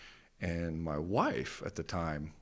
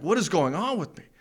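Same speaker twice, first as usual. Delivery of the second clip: much higher and louder panicked cry; panicked outburst; 10 semitones higher, 6 dB louder than usual. Retold or imitated. In an anxiety attack, crying out to himself, panicked. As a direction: cry out in alarm.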